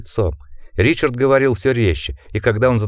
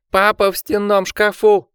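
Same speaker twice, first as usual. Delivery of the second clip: frightened cry; 11 semitones higher than usual. Acted. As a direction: cry out in terror. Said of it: "крикнул Ричард". (испуганный детский крик)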